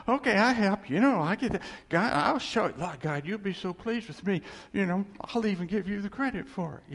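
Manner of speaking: eager helper. Pretend. Mocking eager God helper.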